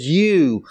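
"You" hit hard as the key word; a single pointed "You"; emphatic you. Shown as a demonstration. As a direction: lean on "You", it means you alone.

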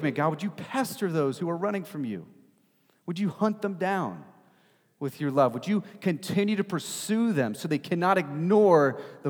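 high, pleading sermon prayer; fervent retold prayer. Preacher retelling his weekly prayer for runaways, high and fervent. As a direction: lift the pitch and petition earnestly.

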